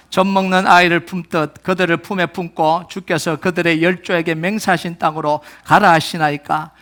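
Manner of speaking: steady formal recitation; scripture reading. Real, not acted. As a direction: read the verse firmly for all to follow.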